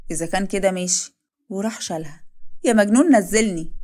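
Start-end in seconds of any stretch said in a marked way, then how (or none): 2.6-3.7 playful protest. Acted. Wife lifted by her husband, loud playful protest. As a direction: squeal at him to put you down.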